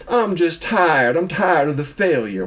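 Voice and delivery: weary line sliding into a Southern accent. Real, not acted. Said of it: "Why are you talking a Southern accent?".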